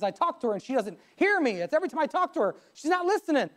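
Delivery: acted complaint climbing in pitch; frustrated husband. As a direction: voice a husband's mild exasperation, rising as it goes. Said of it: "this husband was frustrated".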